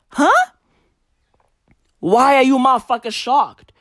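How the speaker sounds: squeaky disbelieving huh, then a scoff; incredulous huh. Retold or imitated. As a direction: act stunned at their stupidity. Mocking reply to dudes.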